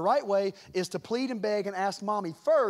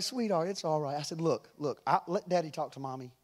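lower, gentle reassurance; comforting daddy; 3 semitones lower, 4 dB quieter than usual. Retold or imitated. Dad hugging his crying daughter, reassuring. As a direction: soothe an upset child. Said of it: "I grab her and I hug her".

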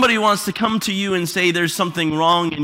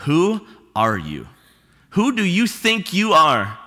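indignant retort; slower than usual. Retold or imitated. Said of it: "I'll tell you what my first reaction is".

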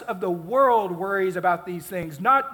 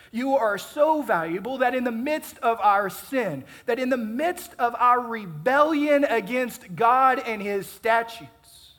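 rising, louder preaching on so valuable; fervent preaching; 4 semitones higher, 4 dB louder than usual. Acted. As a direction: drive home how valuable they are. Sermon climax on God's love.

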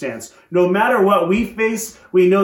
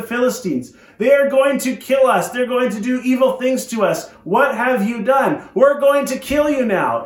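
higher pitched, heated protest from angry countrymen; angry crowd; 5 semitones higher than usual. Retold or imitated. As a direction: accuse him, pitch raised in alarm. And they are mad.

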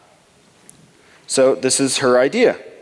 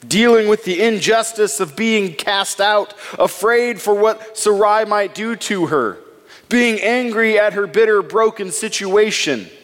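building intensity; 5 semitones higher than usual. Real, not acted. Preacher builds up the scene.

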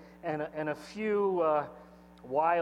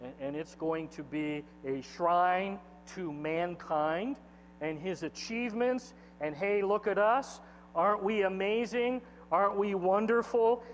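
self-admiring boast; 3 semitones higher than usual. Acted. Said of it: "And they decide".

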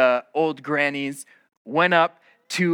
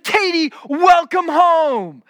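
high, loud, slow granny greeting; loud old granny voice; 13 semitones higher, 7 dB louder, slower than usual. Retold or imitated. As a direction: call it out like a thrilled old granny. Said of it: "in their best old grandmother voices".

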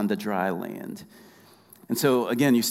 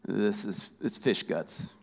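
a hint of a stern father, softer and lower; stern God voice; 3 semitones lower, 3 dB quieter than usual. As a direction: scold him quietly like a father. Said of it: "he probably was like".

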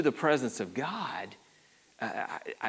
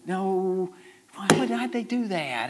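lightly voiced, rising to a higher, fretful plea; a hint of a worried onlooker begging no; fretting saints in heaven; 6 semitones higher than usual. Saints peering down from heaven, lightly mimed as fretful. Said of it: "they're peering over and going".

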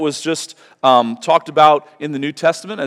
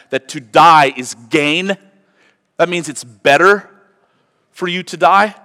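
incredulous challenge; 4 semitones higher, 6 dB louder than usual. Real, not acted. Challenging question to congregation.

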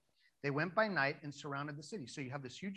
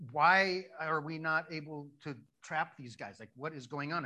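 frustrated; 7 dB louder than usual. Acted. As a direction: hammer out the opening WHY in mock frustration. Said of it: "He's getting so frustrated".

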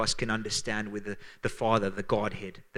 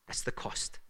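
solemn whisper; 6 dB quieter than usual. Real, not acted. Pastor tells the church the price of sin, whispered. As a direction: drop to a breath for weight. Solemn point after torture description.

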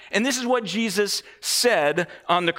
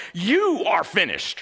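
slow, mildly wrathful pronouncement; mock wrath. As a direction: lash out in slow, put-on wrath. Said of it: "from a sense of, you know, wrath".

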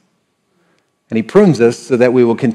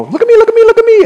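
very high squeaky voice of a showy tree; whiny tree voice; 6 dB louder, much faster than usual. Acted. Apple tree begging its owner to look, squeaky high. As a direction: pipe up high like an attention-hungry sapling.

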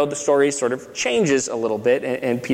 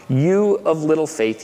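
slow, weighty reading of "You of little faith"; slower than usual. Shown as a demonstration. Preacher dwelling on Jesus' rebuke, slow and deliberate. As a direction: let "You" land, then draw the line out. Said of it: "I wanna focus just here".

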